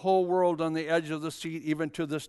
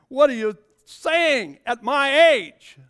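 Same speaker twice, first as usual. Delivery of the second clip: laughing disbelief; 5 semitones higher, 6 dB louder, slower than usual. Retold or imitated. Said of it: "she says".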